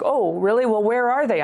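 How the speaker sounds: mock-surprised challenge; sceptical retort. Answering people who say just get a therapist, sceptical retort. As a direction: push back on glib advice with exaggerated doubt.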